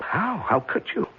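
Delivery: sharp high startled question; startled disbelief. Acted. Husband alarmed his wife found the truth, startled. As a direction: jolt up in alarm.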